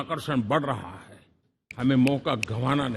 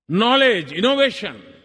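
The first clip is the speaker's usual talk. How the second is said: each word called out louder and higher; punched keywords; 5 semitones higher, 5 dB louder, slower than usual. Real, not acted. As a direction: hammer each word home. Listing key words to crowd.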